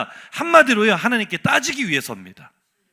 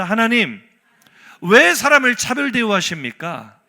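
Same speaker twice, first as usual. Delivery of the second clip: louder indignant demand toward God; demanding protest; 6 dB louder than usual. Shown as a demonstration. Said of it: "따라합시다". (하나님께 따지듯 크게 항의하는 목소리)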